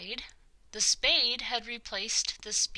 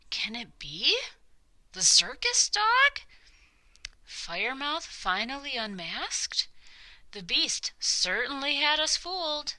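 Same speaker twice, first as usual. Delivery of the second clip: shocked crowd; 6 semitones higher than usual. Acted.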